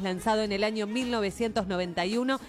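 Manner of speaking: lifted, announcer-style chart rundown; radio presenter. Acted. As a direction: present the track like a radio host. Presents the song just played.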